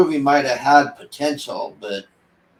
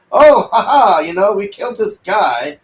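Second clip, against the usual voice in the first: higher, louder fake laugh; mock laughing; 5 semitones higher, 5 dB louder than usual. Reviewer mimicking the wife laughing after a kill, mock laugh. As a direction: parody a carefree killer's laugh.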